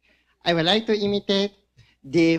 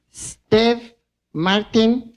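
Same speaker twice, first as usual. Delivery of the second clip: announcing Steve Martin; 4 dB louder, much slower than usual. Retold or imitated.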